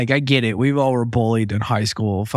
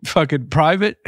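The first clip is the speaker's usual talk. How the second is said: higher, sharp yell of a drill sergeant; mock angry drill sergeant; 6 semitones higher than usual. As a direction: bark it like an outraged sergeant. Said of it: "She's like".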